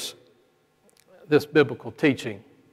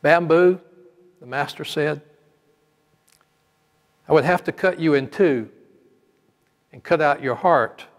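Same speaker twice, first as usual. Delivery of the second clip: measured storytelling, drawing listeners in; story narration. A narrator's reading. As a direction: tell the parable like a sermon story. Preacher tells a parable.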